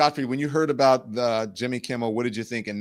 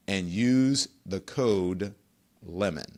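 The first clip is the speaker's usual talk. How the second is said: lemon said very slowly, trailing off softer; slow repeated promo code; 6 semitones lower, 4 dB quieter, slower than usual. Shown as a demonstration. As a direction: drag out and use the code lemon so it sticks.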